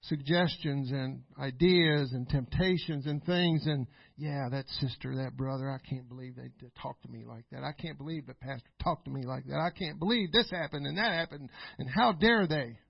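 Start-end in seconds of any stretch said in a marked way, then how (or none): 4.2-12.8 low, muttered resentful grumble; a touch of a petty offended church member; grumbling churchgoer. Retold or imitated. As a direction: sulk it under your breath. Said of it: "he'll get you talking like that".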